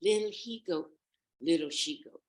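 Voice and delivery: reach up for the mother's tune; rehearsed singsong attempt; wolf practicing. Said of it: "he began to practice".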